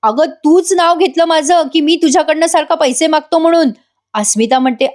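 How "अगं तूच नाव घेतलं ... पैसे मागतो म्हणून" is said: mock angry yell, pitched well up; retold shout. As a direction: imitate the husband shouting back in disbelief. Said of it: "Sachin ओरडून म्हणतो".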